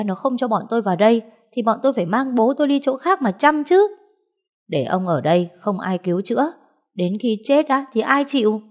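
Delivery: indignant aunt, pitch climbing at the ends; mildly heated, self-justifying protest; complaining aunt. Acted. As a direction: argue back with rising pitch. Aunt arguing in story.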